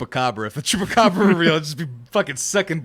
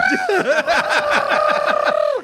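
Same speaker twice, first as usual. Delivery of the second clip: cicada buzz. Shown as a demonstration. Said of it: "That's the best cicada impression I got".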